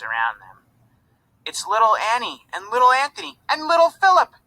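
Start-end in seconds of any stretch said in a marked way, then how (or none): 1.4-4.3 high, fast, loud excited shout. A narrator's reading. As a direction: call out with joy across the crowd. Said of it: "Annie heard the shouts".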